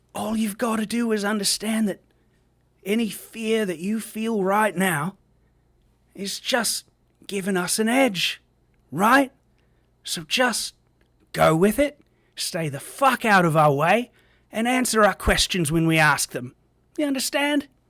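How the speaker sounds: furious shouting British man. Speaking in character to another player: angry yelling British man. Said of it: "This angry British man is yelling at me".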